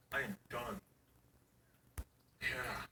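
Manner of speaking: soft, breathy sigh of relief; spent. Real, not acted. Dad collapsing after kids' bedtime, softly. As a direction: let it all out.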